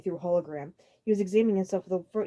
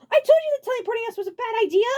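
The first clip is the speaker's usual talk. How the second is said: high, loud scolding; furious told-you-so shout; angry; 10 dB louder than usual. A narrator's reading. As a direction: tell him off at full volume. Iggy scolding Abrak.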